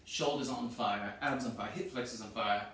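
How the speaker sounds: effortful, slowed words; straining from exertion. Real, not acted. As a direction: speak through the burn. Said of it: "I got that lovely burn".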